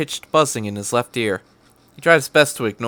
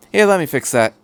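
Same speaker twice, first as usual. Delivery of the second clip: Doctor's voice; 4 semitones higher, 4 dB louder, faster than usual. Acted. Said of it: "with an odd accent".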